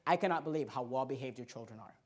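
low, hushed quote of an onlooker; imitated amazed stranger. Lightly acted, softened compliment. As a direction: stranger praising his children at a restaurant, quietly amazed. Acting out admiring restaurant strangers.

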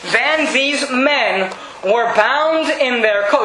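each word stretched out; slow scripture reading. Acted. Preacher reading Daniel to the church, slowly. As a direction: read it slow and weighty.

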